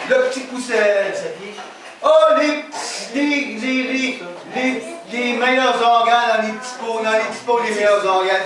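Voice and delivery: stammered, singled-out teasing, mildly put on; mocking name-callers. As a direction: lightly mimic people teasing with pet sayings. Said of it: "de me faire appeler".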